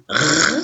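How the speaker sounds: R sounded alone as a long French throat sound; son isolé. Shown as a demonstration. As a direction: hold the bare sound of R, no letter name. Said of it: "On entend d'abord le petit son". (R prononcé seul, tenu, comme un son)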